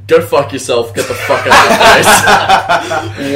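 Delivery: loud retold telling-off, building; retold angry outburst. Telling Sonny off for ruining the night, mock-angry and loud.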